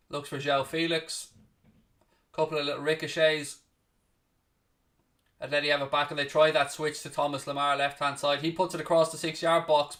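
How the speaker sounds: steady play-by-play, calling each pass as it happens; live commentary. Acted. Calling the Atletico v Chelsea match for viewers, play-by-play commentary. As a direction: talk the match through like a broadcast caller.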